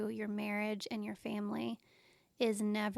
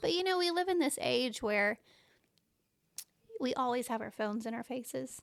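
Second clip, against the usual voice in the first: choked-up voice, catching with emotion; 3 semitones higher, 3 dB louder than usual. Talking with a co-host about childhood, getting emotional. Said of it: "I don't know why I'm getting emotional".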